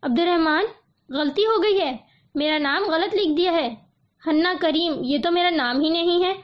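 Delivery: lightly voiced bewildered girl; mild confused surprise. Girl protesting to Abdul Rahman, mildly confused surprise. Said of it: "وہ حیرت اور الجھن سے".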